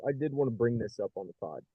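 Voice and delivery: muffled, underwater-sounding bad phone line. Real, not acted. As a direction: voice gurgling as if underwater. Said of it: "You sound like you're underwater".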